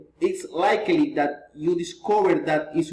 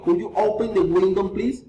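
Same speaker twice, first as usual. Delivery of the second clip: polite request with "please" lifting; rising intonation. Shown as a demonstration. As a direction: raise "please" at the close. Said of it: "reason, intonation".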